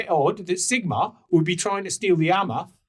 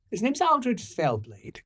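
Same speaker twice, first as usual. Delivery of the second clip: dramatic reveal; 5 semitones higher, slower than usual. Acted.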